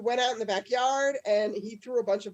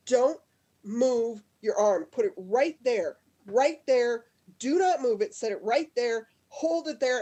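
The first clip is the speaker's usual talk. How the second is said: louder, emphatic orders, each one punched; imitating an exasperated coach losing patience; frustrated stepbrother; 5 dB louder than usual. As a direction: drill it in with mock exasperation. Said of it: "he got so frustrated".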